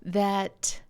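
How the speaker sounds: slowed down and leaning in; slow, earnest emphasis. Shown as a demonstration. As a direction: spell it out slowly so it lands. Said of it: "maybe I'll say it a little slower".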